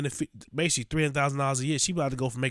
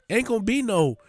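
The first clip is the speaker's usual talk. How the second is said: higher, louder, quick scoffing; loud mocking; 8 semitones higher, 6 dB louder, faster than usual. Real, not acted. Scoffing loudly at the supervisor's lawsuit threat. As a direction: shout it down fast, scornful.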